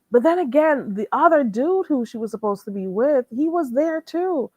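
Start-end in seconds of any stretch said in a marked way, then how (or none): 3.3-4.5 slow, high, hushed whisper; gossip whisper. Real, not acted. Telling viewers the ex was there, hushed whisper. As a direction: lean in and whisper the juicy part.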